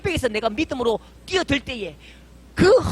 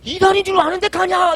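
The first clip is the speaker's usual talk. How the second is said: loud, higher, slowed scolding; angry retort; 7 semitones higher, 7 dB louder than usual. Retold or imitated. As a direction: snap at her in disbelief, drawn out. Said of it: "이렇게 막 화를 내려는데".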